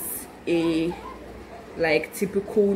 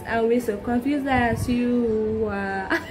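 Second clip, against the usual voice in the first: laughing; 4 semitones higher, slower than usual. Real, not acted. Laughing after her silly song.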